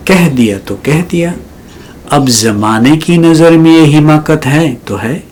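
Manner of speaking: mushaira-style verse reading; poetry recitation. Acted. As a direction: recite in separate phrases with rising, lingering ends. Recites a ghazal as poem.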